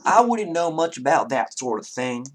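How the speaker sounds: lightly voiced Southern gentleman; Southern character, modest. Townsman unsure about magic, modest Southern voice. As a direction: demur as a polite Southern townsman.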